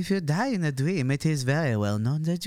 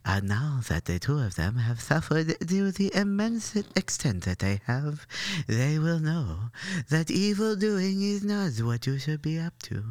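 announcer voice; 4 semitones lower, 5 dB quieter than usual. Acted. Moralizing announcer voice.

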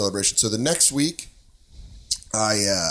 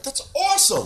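high-pitched fake cheer; mock enthusiasm; 14 semitones higher than usual. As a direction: chirp it way up high, feigning delight. Feigned cheer at girlfriend's party plan.

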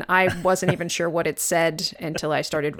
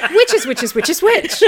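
laughing; 11 semitones higher, 8 dB louder than usual. Real, not acted. Game of which is which.

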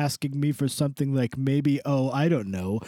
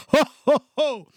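Santa ho ho ho; 9 semitones higher, 5 dB louder than usual. Acted. Santa's laugh.

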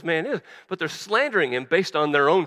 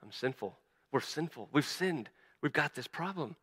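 guilty confession; 7 dB quieter than usual. Acted. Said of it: "all they can think about is".

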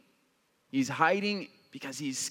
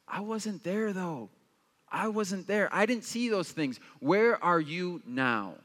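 doubting complaint; 3 semitones higher than usual. Retold or imitated. Gideon questioning God, lightly voiced hurt challenge. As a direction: press him where he's been. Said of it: "He's saying".

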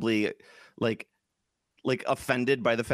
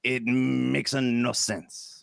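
hammed-up French film-fan accent. Mock Frenchman describes the film.

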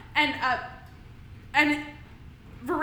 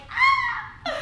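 excited squeal. Retold or imitated. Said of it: "Eliza's like".

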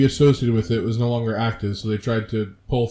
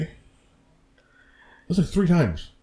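drawn out; 6 semitones higher, much slower than usual. Real, not acted. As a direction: stretch like three times slowly. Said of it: "exaggerated slow".

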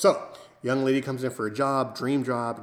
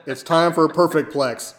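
mock announcer yell; 3 semitones higher, 6 dB louder than usual. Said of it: "And they yell it out".

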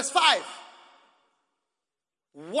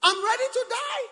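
Paul's last words; 12 semitones higher, 5 dB louder than usual. Acted. Paul voiced, last words.

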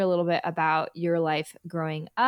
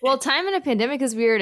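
higher, louder, fast through a laugh; laughing echo; 8 semitones higher, 6 dB louder, faster than usual. Real, not acted. Host echoing the guest's joke while laughing. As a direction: repeat it while still amused.

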